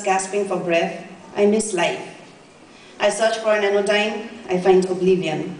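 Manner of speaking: measured poetry recital with pauses between phrases; understated, deliberate verse reading; poem reading. Acted. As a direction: read your poem aloud, line by line. Reads her poem aloud.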